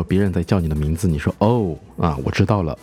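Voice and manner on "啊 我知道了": ordinary talk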